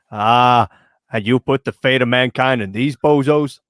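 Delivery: lightly acted exasperated film character; movie character impression. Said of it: "spends the whole movie going".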